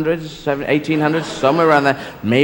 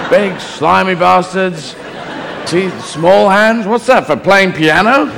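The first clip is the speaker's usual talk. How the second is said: baffled son, pitched up; Jesus questioning Dad; 3 semitones higher than usual. Acted. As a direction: fire puzzled questions at Dad, getting more insistent. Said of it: "Jesus must have asked a few questions like".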